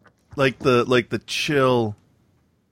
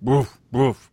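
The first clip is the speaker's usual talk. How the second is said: mock dog bark. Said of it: "I hear".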